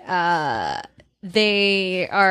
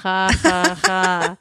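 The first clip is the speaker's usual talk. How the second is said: fake laugh; 3 semitones lower, much slower than usual. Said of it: "how many times can I hear that".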